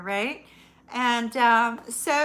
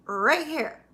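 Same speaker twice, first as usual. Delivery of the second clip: 1 laughing answer; 7 semitones higher, 10 dB louder, much slower than usual. Retold or imitated. Pointing out ghost, laughing.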